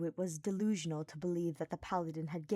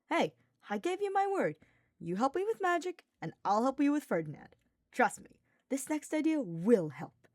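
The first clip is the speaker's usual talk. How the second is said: much higher, louder buddy voice; cocky knight reassuring his friend; Sylvain, cheerful and confident; 7 semitones higher, 4 dB louder than usual. Acted. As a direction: sell the promise with a grin. Sylvain promising help.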